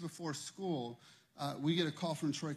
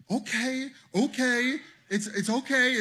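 calming friend; 8 semitones higher, 8 dB louder, slower than usual. Retold or imitated. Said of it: "this is what Ryan always says".

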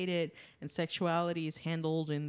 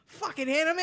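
mock grumble; 9 semitones higher, 6 dB louder than usual. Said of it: "he's like".

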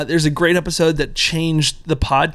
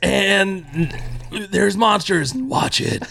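higher hammed-up promo voice; cheesy blurb voice; 4 semitones higher, much slower than usual. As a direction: sell it like a cheap streaming blurb. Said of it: "I guarantee that one from Nightbreed is".

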